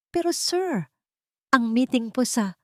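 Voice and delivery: put-on a young assistant cutting in, unsure; startled secretary. A narrator's reading. Secretary objecting to her boss, nervous and high.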